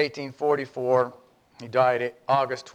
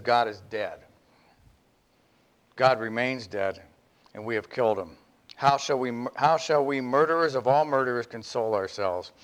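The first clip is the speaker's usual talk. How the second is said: grave pronouncement; 2 semitones lower than usual. Acted. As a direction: let it land like a death sentence. The climax line, lower and grave.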